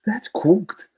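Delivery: breathy whispered verdict. Real, not acted. Podcast host whispering the verdict. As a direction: drop to a whisper for the punchline.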